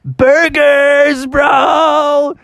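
high, loud eager cry; excited shout. Acted. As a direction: yell it like a hungry kid. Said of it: "And he's like".

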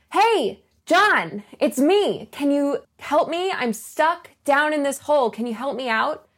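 spot a friend and call up eagerly. Retold or imitated. Man stuck in a hole hails his friend John, eager shout. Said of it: "our guy shouts up".

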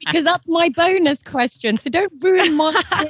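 squeaky high mock whine; high-pitched. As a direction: pitch way up, playful protest. Host protesting, squeaky high.

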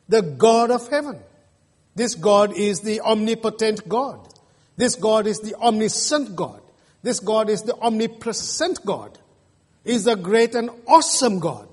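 rising sermon cadence; emphatic preaching. Acted. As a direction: stress on God in each line, a building list. Preaching at full force.

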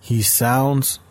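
slow, mocking English read-out of a comment. Reading a YouTube comment to his viewers, slow and mocking. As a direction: drag it out like you're making fun of him. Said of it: "el comment decía".

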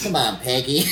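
lightly imitated odd movie voice; mock pleading in a put-on voice; Nick Cage's high voice. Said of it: "he talked like this? He did the high voice".

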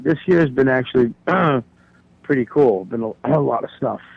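clearing throat between words from smoke; talking while choking on cigar smoke. Real, not acted. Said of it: "I'm smoking a cigar, and I'm choking on it".

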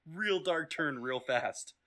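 hammed-up slow dismay; mock shocked. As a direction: stretch it out in fake horror. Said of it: "I'm like".

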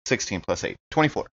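ordinary talk

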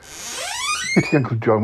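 calling out. Acted. Calling the yeti to the door.

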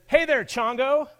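high, loud, slow and drawn out; stretched-out teasing hello; caller's sing-song greeting. Retold or imitated. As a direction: call him by a pet name with a playful lilt. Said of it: "it said".

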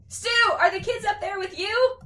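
high, loud call up the stairs; yelling upstairs. A narrator's reading. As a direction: shout up to someone on another floor. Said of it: "yelled up".

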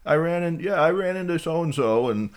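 lightly voiced creepy old man, hammy; a hint of a lonely old caller. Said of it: "that somebody".

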